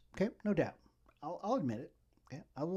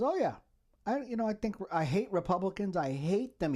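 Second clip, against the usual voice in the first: mocking quote; 5 semitones higher than usual. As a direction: mimic him bragging with a hammed-up high voice. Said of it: "he goes".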